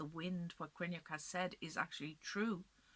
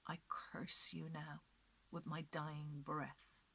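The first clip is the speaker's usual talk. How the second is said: dying curse; 5 dB louder than usual. Acted. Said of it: "and she says".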